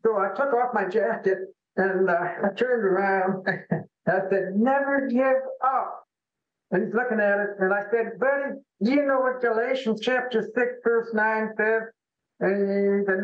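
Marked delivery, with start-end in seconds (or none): 4.6-6.1 raised, slow encouragement; higher and slower, spelling out a motto to someone; encouraging. Retold or imitated. Man showing his shirt motto to a depressed stranger, encouraging. 8.2-11.8 higher-pitched, encouraging question; earnest appeal. Retold or imitated. Man asking a depressed stranger at the bar about a verse, encouraging.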